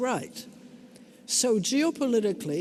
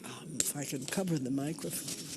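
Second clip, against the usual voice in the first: unvoiced whisper, much softer and lower; 7 semitones lower, 9 dB quieter than usual. Real, not acted. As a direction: lean in and whisper it. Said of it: "I maybe have to whisper".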